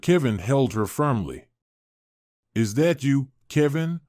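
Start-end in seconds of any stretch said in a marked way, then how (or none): 2.5-4.0 a hint of a creaky old witch. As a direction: lightly creak the question like an old woman. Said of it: "the witch asked in a creaky voice".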